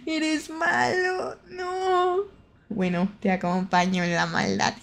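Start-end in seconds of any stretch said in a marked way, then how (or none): 0.1-1.4 mock scolding voice. Scolding in a put-on voice. 1.5-2.2 fake whimper. Put-on whimper.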